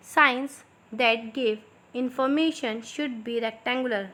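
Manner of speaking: slow, clear dictation pace for students to write. Shown as a demonstration. Teacher dictating slowly to her students. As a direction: spell it out slowly so they can copy. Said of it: "थोड़ा मैं slow slow बोलूँगी".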